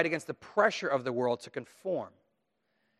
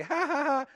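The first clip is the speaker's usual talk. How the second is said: much higher, mocking ha ha ha; mocking fake laugh; 13 semitones higher than usual. Preacher imitates kids laughing at a dared child, high mock laugh. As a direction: laugh at someone like a playground bully.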